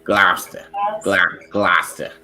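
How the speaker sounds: Gloucester said GLAS-tuh with a flat a. Shown as a demonstration. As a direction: Gloucester with the a sound where the o is. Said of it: "put an A where the O is".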